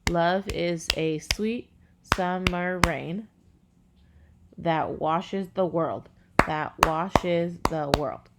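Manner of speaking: counting syllables. Shown as a demonstration. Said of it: "So again, five, seven, five".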